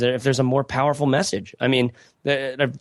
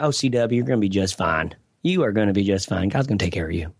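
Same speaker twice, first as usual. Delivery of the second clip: imitating an older lady's light Southern accent, pitched lower; little Southern accent; 4 semitones lower than usual. Older lady mentor reassuring him, in a little Southern accent. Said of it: "in a little Southern accent".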